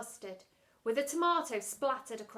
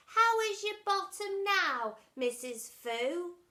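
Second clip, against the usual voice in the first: sarcastic concern; 8 semitones higher, 6 dB louder, slower than usual. Acted. Mungo sarcastic toward teacher.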